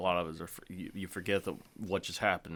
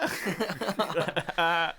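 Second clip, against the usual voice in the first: stunned bystander; 9 semitones higher, 4 dB louder, much slower than usual. Retold or imitated. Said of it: "But she's like".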